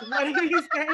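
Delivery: lightly put-on sing-song customer voice; head cocked, mock sweet voice; exaggerated cartoon intonation. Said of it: "Why are you talking like that".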